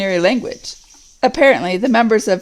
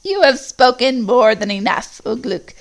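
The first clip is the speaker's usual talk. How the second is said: a mocking goblin sneer; 3 semitones higher than usual. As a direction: cut Ugluk down with scorn. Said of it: "sneered the evil voice".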